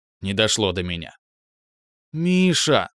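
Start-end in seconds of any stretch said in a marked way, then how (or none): 2.1-2.9 drawn-out affectionate. Acted. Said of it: "ласково затянула Леночка".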